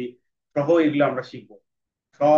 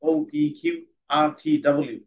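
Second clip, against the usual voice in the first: slow reading. Shown as a demonstration. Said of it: "প্রথমে slow".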